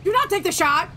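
loud, urgent yell; shouting. Pretend. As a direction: shout the order to stop. Yelling at radio order.

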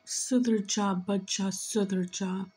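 put-on low-pitched plea to a child; channeled father. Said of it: "I can hear him say".

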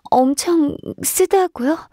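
slow surprised repeat; surprised question. Acted. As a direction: ask it back, slowly and in disbelief. Told the petals taste bitter.

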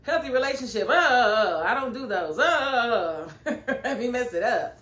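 high, loud mocking whine of Tyler; mock whiny voice with a fake cry and laugh. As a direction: sneer it like a whiny boyfriend. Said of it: "Tyler had to do something like".

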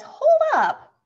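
loud, high-pitched interjection; calling a halt. A narrator's reading. Big Benny interrupts arguing ant triplets, shouting. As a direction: shout it to break up a squabble. Beetle halting arguing ants.

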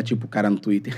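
ordinary talk

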